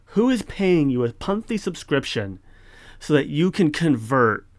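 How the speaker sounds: really demanding an answer; righteous anger. Real, not acted. Scolding the library author over a subscription, indignant. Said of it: "That was some good righteous anger".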